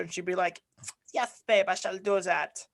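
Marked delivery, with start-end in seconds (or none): 1.1-2.6 badly faked Polish accent; failed Polish accent. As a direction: attempt a Polish girlfriend's accent and miss. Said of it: "that's not even a Polish accent".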